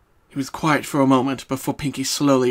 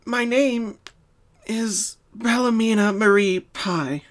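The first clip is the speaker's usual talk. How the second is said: clearly spoken; 9 semitones higher, slower than usual. Acted. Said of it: "she spoke clearly".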